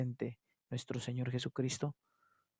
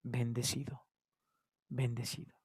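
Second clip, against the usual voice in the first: hesitant blessed; 3 semitones lower, 9 dB quieter than usual. Acted. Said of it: "por qué nos cuesta ... decir".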